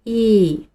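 "E" as a clear ee; G的第二个音; second part of G. Shown as a demonstration. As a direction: follow with a clean ee for "E". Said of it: "第二个".

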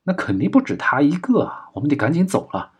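high-pitched, worried henchman; anxious urging. Acted. Henchman urging the gang to flee.

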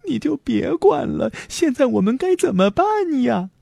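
put-on high, fretting boy's voice; worried storybook boy; anxious. A narrator's reading. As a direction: plead urgently, pitched high. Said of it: "莫里斯着急地说".

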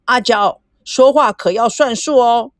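lightly put-on man's voice, teasing; a hint of a man's voice, playful and odd; mock man's voice. Sun Na teasing Meijiao through the door, mock man's voice. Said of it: "孙娜怪腔怪调的学着男人的声音".

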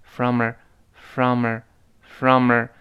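"from a" run together like "frommer"; teacher drilling linked "from a"; linked weak form. Shown as a demonstration. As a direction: repeat "from a" as one linked word. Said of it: "听到是这么一个声音啊".

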